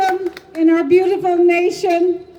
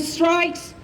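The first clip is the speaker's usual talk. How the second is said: slow, ringing cry, pitched higher; rousing call; 6 semitones higher, much slower than usual. Shown as a demonstration. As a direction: lift and stretch it out as a rallying cry. Rousing line of proclamation.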